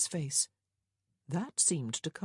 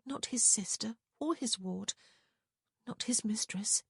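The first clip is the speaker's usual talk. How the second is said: high, whispery hush; said softly; 6 semitones higher than usual. A narrator's reading. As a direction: confide it under the breath. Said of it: "Prudence said softly".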